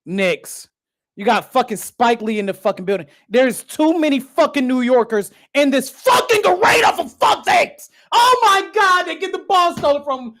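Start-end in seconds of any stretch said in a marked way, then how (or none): 3.3-7.9 rising exasperated shout; fed-up fan yelling; angry rant. Real, not acted. Ranting at Knicks fans. 8.1-10.3 high, anxious oh no cries; nervous fan yelps; panicked excitement. Real, not acted. Live reaction to steal.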